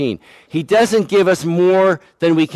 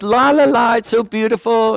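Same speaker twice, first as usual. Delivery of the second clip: breezy, higher sing-song lilt; mock oblivious, dreamy wonder; carefree daydreaming; 5 semitones higher than usual. Mimics own carefree distracted driving.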